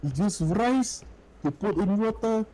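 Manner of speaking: high-pitched mock Urdu-accented English; Urdu speaker's accent. Imitating restaurant coworkers explaining rice, exaggerated Urdu accent. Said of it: "they sound like this".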